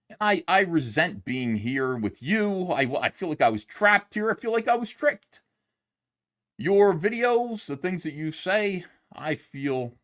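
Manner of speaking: a mild parody of a director scolding his fans; mocking Zack Snyder. YouTuber parodies the director scolding his audience, mock-solemn. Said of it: "So I didn't say "fuck you," but it was kinda like that".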